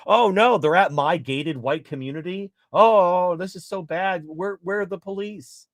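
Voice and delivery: mock celebrity panicking at the gate; mock panic. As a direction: ham up the celebrity's horror as the rioters arrive.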